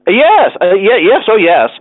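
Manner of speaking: high, stammered yes; flustered. A narrator's reading. Winkle flustered by skating question.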